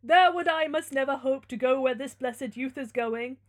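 loud, theatrical lament; pleading holy man. Acted. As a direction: declaim it as a character in a gothic tale.

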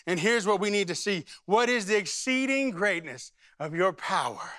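earnest prayer in short repeated petitions; demonstrated prayer. Shown as a demonstration. Pastor showing the congregation how to pray the card, prayerful. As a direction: pray the scripture aloud, phrase by phrase. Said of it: "I'm gonna show you how to pray this".

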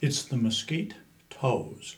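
"Mesquite Toes" said as two words, stress on "Mesquite"; correcting the name. Shown as a demonstration. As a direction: spell out "Mesquite Toes", leaning on "Mesquite". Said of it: "they used to get upset if people called them mosquitoes".

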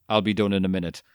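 light mock Boston accent; a hint of a Boston accent. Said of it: "in a perfect Boston accent".

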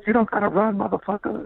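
put-on high old-man voice; lightly voiced old guard. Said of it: "security guards goes".

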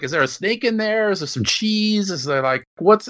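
high-pitched, puzzled rapid-fire questions; mock bafflement. Viewer recalling confusion over the mice in the bar, mock baffled.

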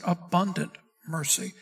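"abundant" set apart with emphasis before "mercy"; stress on ABUNDANT. Shown as a demonstration. Preacher teaching what Peter wrote, stressing "abundant". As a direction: lean on the word "abundant". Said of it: "Peter didn't just say mercy".

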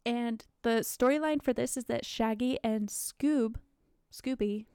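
talking with hiccups; words broken by hiccups. Real, not acted. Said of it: "sorry, I have the hiccups".

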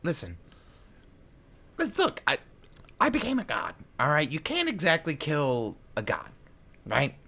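villain voice. Acted. GM voices Nilbog.

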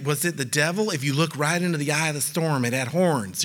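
lightly imitated doom-monger, pitched low; a touch of put-on spookiness; mock church voice. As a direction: tell it as a mock ominous sighting. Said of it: "I don't know why I do the voice".

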